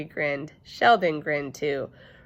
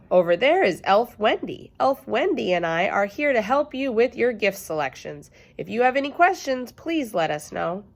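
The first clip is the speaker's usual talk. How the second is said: cheery shop lady; 5 semitones higher, 4 dB louder than usual. Acted. Elf Ellen redirecting.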